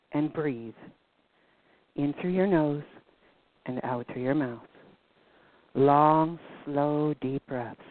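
measured breathing guidance, spaced out with long pauses; hypnosis-like calm. Shown as a demonstration. Radio host coaching anxious listeners to breathe, hypnotic calm. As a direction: guide listeners calmly through each breath. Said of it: "not taking you through a hypno session".

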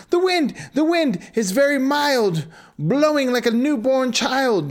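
put-on high, sing-song kids' reply; childlike rhyme. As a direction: chant it sweetly like children.

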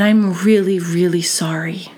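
sincere, slowing into a hush; heartfelt apology, trailing into near whisper; emotional apology. Retold or imitated. Apologizing to the child she felt bad for, emotional apology. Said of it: "I'm getting emotional".

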